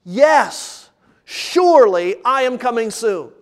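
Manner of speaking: emphatic, assured proclamation; absolute certainty. Acted. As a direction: declare it as beyond all doubt. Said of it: "saying with absolute certainty".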